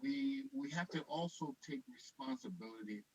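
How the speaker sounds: bad line, words dropping out; voice going in and out. Real, not acted. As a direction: voice breaking up on a weak connection. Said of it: "your voice is going in and out".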